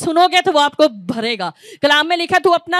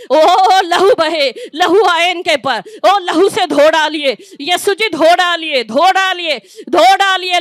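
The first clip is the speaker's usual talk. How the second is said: fervent prayer; slower than usual. Real, not acted. Preacher pleading for cleansing blood.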